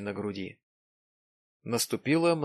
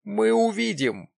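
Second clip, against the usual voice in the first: retorting; 10 semitones higher, 5 dB louder than usual. A narrator's reading. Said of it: "возразил Джим".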